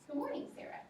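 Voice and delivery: bright, friendly good morning; cheerful hello to a student; friendly greeting. Shown as a demonstration. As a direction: greet her warmly by name. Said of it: "I used a nice voice".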